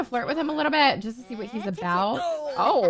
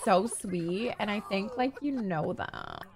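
put-on hushed girly confiding, fading softer; mock confiding whisper; 4 semitones lower, 8 dB quieter than usual. Teen telling friend about her crush, hushed confiding. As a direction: share a secret crush, trailing into softness. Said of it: "whisper about her crush".

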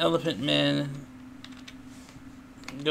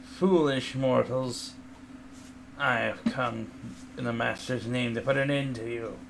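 dark lord; 3 semitones lower, 5 dB quieter than usual. Acted. GM voices undead creature's threat.

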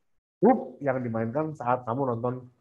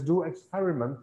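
British English; 4 dB quieter than usual. Shown as a demonstration. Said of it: "Kalian bisa bilang dengan British English".

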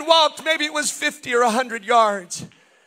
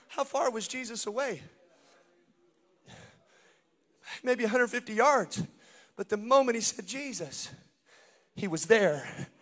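much softer, lower, intimate; soft preaching; 6 semitones lower, 9 dB quieter than usual. Acted. Preacher tenderly addressing the drowning sinner, soft and low. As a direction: speak gently to the sinking listener.

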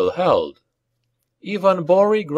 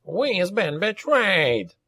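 high, drawn-out cry of betrayal; goblin bellow; 8 semitones higher, 4 dB quieter, slower than usual. A narrator's reading. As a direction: wail it out slowly in a goblin voice. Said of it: "Nazbot bellowed".

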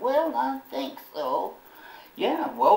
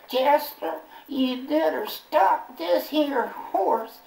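put-on girlfriend yelling; 6 semitones higher than usual. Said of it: "She yelled".

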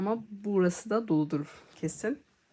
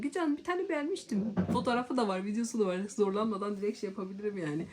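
pleading to a friend; 3 semitones higher, faster than usual. Pretend.

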